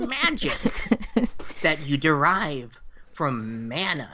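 lightly voiced old witch; a hint of an old crone explaining. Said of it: "You sound like a witch".

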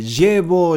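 "llevo" with a consonantal y sound; pronunciation variant. Shown as a demonstration. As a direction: say "llevo" as "YEH-bo", with friction on the y. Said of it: "son diferencias muy pequeñitas".

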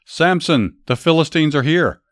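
narrated yell. A narrator's reading. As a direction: alarm the sleeping Samson with a moderate shout. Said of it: "Then she yelled".

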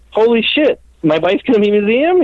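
high, astonished retelling of disbelief; mock stunned disbelief, pitched high; retold amazement. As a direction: squeal it out like you can't believe it. Retold shock at the news.

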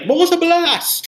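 high, drawn-out hero battle cry; mock superhero shout; mocking Ion's attack call. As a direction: ham up the cheesy attack name. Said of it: "especially when it's like".

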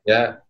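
Lafayette beginning like "laugh", LAFF-ee-et; local pronunciation. Shown as a demonstration. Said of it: "like you're gonna say laugh".

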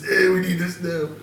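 poorly imitated cartoon character voice; a loose, unconvincing cartoon impression; Mo from the Simpsons. Storyteller imitating the worker, badly done cartoon voice. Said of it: "He's like Mo from fucking Simpsons".

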